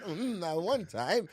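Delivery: John Malkovich impression. Actor on set just after cut, imitated. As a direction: draw it out in the actor's manner. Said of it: "yeah, he talks like".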